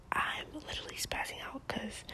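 secretive whisper, barely any voice; hushed confession to the camera. Real, not acted. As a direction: whisper it like a secret you're ashamed of. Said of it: "so I'm gonna whisper".

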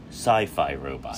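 slow mock dramatic announcer voice; mock dramatic announcement. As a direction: imitate his big slow reveal. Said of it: "until you actually said".

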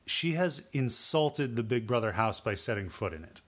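worked-up rant about the houseguest. Real, not acted. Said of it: "yelling, you're yelling".

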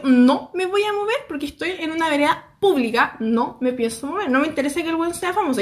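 mildly indignant retold refusal. Vlogger refusing to move for the famous man, indignant. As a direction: dig your heels in, a touch indignant. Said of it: "pero muy indignada".

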